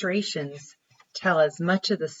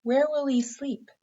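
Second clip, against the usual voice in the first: voicing the mother; 10 semitones higher than usual. Mother questions boy in story.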